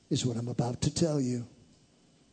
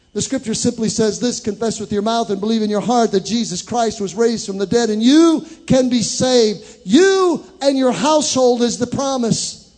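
much higher and louder, shouted climax; full-force preaching; 8 semitones higher, 10 dB louder than usual. Real, not acted. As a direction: proclaim it at the top of your voice.

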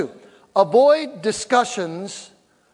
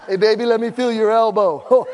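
mock smooth talker; 4 dB louder than usual.

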